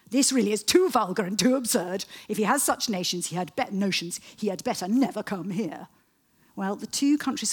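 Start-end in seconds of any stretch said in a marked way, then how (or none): 0.1-5.9 louder, emphatic royal indignation, lightly acted; indignant Queen. Historian quotes Victoria set off by her grandson, mildly acted indignation. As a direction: read it out as a put-out queen. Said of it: "This really set the Queen off".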